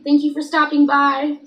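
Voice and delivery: loud, fast sign-off. Real, not acted. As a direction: call it out quickly and loudly. Loud sign-off to stream viewers.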